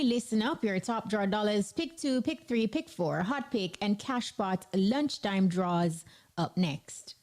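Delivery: punchy lottery announcer patter; upbeat station promo read; radio promo read. Acted. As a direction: sell the draws like a DJ. Radio host repeats lottery promo.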